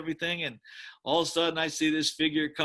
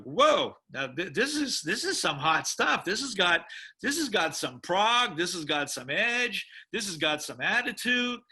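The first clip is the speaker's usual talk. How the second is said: retold excitement; 4 semitones higher than usual. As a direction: gush about hot new music, a laugh in it. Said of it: "And I was like".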